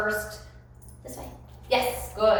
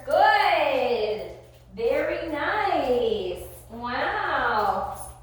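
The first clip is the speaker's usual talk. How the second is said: slow praise; 3 semitones higher, much slower than usual. Real, not acted. Praising dog on walk.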